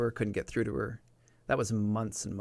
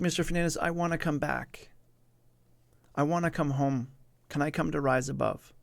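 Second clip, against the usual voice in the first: higher, lightly voiced pleading girl; retold meekness in a raised pitch; meek, distressed girl; 4 semitones higher than usual. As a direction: imitate her timid plea to return. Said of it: "really soft, really meek, clearly distressed voice".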